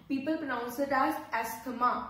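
asthma said as "estama" with a t; mispronouncing asthma as "estama"; wrong asthma. Shown as a demonstration. Teacher demos the wrong way as "estama". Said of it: "It is not asthma".

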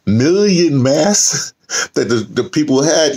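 laughing at the absurdity while talking; giggling through the words. Real, not acted. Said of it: "a laugh or a giggle at something".

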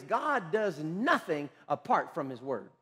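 slow, measured declaration; deliberate statement. Real, not acted. Preacher states a key principle to his congregation, slow and deliberate. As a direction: lay it down word by word, slowly. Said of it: "Let me say it like this".

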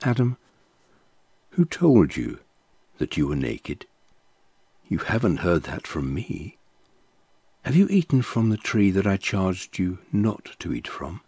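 mild, kindly questioning; gently. Acted. God questioning Adam in the garden, lightly gentle. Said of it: "God gently said to him".

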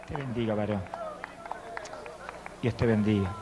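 usual speaking voice

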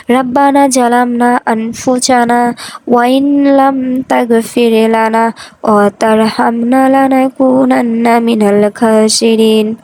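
slow, drawn-out Arabic prayer recitation; dua recitation. Acted. Narrator teaching listeners Adam and Hawa's special dua, slow recitation. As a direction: recite it slowly, holding the long syllables level.

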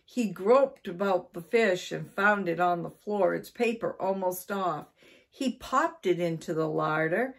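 animated read-aloud storytelling; story narration. A narrator's reading. Storyteller reading about Mister Twiddle and the cat, animated narration. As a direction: tell it clearly with lively stress.

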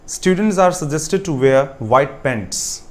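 words spaced out very slowly; slow dictation. Shown as a demonstration. Teacher slowly dictating the third sentence to students. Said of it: "On Saturdays".

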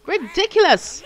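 high, loud outraged screaming. Real, not acted. Gamer spawning alone among plants, screaming in outrage. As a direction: shriek in disbelief at the spawn point. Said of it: "I'm gonna stop screaming now".

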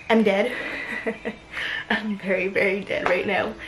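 panting after a workout; winded and worn out; out of breath. Real, not acted. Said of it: "out of breath".

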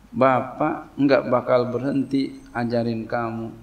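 calm, even-voiced father; unruffled, steady words to a wailing child; patient parent. Shown as a demonstration. Father teaching a crying child, patient and calm. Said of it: "Ngomongnya begini".

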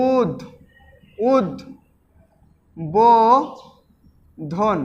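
উদ, বো, ধন with long pauses between; syllable by syllable. Shown as a demonstration. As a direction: sound out উদ্বোধন piece by piece, উদ-বো-ধন. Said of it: "কিভাবে হচ্ছে দেখো তো". (উদ-বো-ধন ভেঙে ভেঙে)

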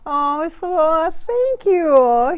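high, loud, touched thank-you; gushing thanks. Real, not acted. Thanking George for a sweet compliment, gushing.

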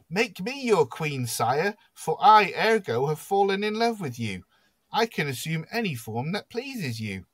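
high, theatrical lovestruck magician; besotted magician. Acted. Magician Ergo declares love to the king, besotted. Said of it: "The magician speaks next".

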